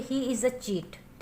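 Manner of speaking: very slow, word by word dictation; teacher reading an example sentence very slowly. Shown as a demonstration. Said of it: "हम कहेंगे".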